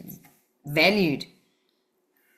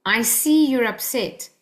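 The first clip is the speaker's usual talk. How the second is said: validating; 3 semitones higher, slower than usual. Shown as a demonstration. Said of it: "Rather say this".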